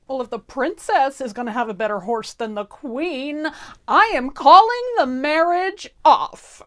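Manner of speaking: Grumbly's tantrum. Acted. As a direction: stomp your foot and threaten to call it off.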